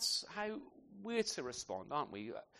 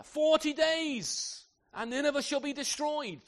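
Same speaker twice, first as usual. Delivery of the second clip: slow, loud, high prophet's warning; a stern prophet announcing doom; doom proclamation; 9 semitones higher, 6 dB louder, slower than usual. Retold or imitated. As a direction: draw out the first two words like a sentence of judgment. Jonah's doom proclamation to Nineveh.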